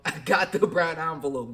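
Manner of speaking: gleeful about the envelope; amused, scheming delivery; laughing. Real, not acted. Laughing at his reveal.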